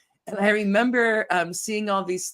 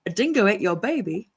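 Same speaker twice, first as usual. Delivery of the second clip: put-on Australian accent. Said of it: "Can I do an Australian accent?".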